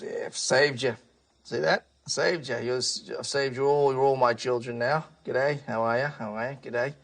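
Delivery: a hint of a self-satisfied folksy character; lightly voiced Noah. Noah walks out to the rescued animals, lightly voiced character. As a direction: lightly play a matey man claiming credit. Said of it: "He goes".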